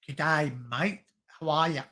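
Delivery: casual Aussie greeting; Australian English. Shown as a demonstration. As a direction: greet a mate in an Australian accent. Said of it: "I can speak Australian English".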